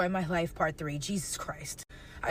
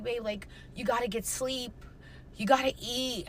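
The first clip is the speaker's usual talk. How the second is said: soft retold plea; 5 dB quieter than usual. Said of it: "he was like".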